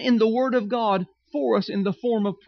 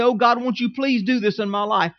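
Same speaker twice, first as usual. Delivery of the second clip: mock whining prayer. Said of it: "bow before God and whine and cry and say".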